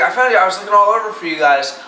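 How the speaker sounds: put-on Pyro's heavy accent. Friend who searched for the group, heavy-accented imitation. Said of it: "obviously in his heavy, awesome accent".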